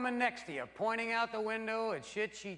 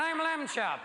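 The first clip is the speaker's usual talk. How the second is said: mock Lamb Chop; 6 semitones higher than usual. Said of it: "the show I thought".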